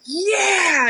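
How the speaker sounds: hammed-up booming shout; booming arrogant alien overlord. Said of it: "big booming voice".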